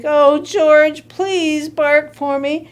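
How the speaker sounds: understated desperate coaxing; frantic. Acted. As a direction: beg the dog, drawing out the words. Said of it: "George's mother was frantic".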